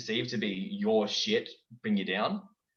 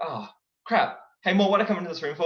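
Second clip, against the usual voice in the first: lightly voiced lemur king, fast; King Julian voice; 4 semitones higher, faster than usual. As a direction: rattle it off like a careless king. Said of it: "All right, uh, Julian".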